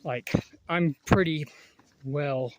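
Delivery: breathless from the climb; panting between words; out of breath. Real, not acted. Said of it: "even I'm out of breath".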